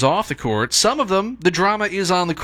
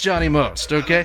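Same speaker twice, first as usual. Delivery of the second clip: ordinary talk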